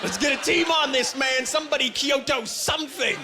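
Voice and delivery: high, urgent plea; mock alarm. Comic demanding action on his sunburn, mock alarm. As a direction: raise the pitch as if sounding an emergency.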